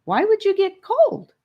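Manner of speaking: high, puzzled surprise; genuinely baffled by the question; bright surprised query with a lifted pitch. Acted. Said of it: "asked Rivers, surprised".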